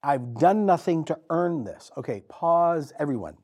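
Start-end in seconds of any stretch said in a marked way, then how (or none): 0.0-1.9 a lightly voiced, louder, pleading Mary. Preacher voices Mary protesting she is nothing, pleading. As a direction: beg to know why me. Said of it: "What she says".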